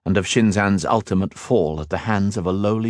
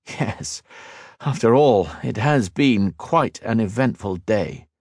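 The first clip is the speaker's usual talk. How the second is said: dry understatement; 3 semitones higher, slower than usual. Acted. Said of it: "Liniel smiled".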